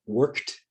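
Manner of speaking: "worked" in one syllable, ending in t; "worked" said like "workt"; silent E. Shown as a demonstration. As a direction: say "worked" with no E before the final t. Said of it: "the E is silent".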